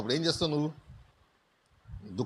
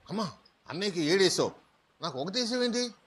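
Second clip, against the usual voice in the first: put-on whiny little boy; 5 semitones higher than usual. Small boy complaining to mother.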